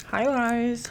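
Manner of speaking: bright, loud, high-pitched hello; loud high greeting. Shown as a demonstration. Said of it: "What if I talk like that?".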